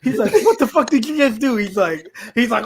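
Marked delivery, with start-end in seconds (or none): 0.4-1.6 higher-pitched mock indignation; retold angry outburst. Cheetah confronts Sal after being touched awake, mock anger. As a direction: demand an answer, mildly outraged. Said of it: "all fucking angry and shit".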